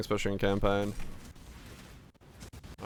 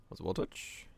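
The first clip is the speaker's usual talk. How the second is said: whispered aside; 10 dB quieter than usual. Real, not acted. Muttered aside, unvoiced.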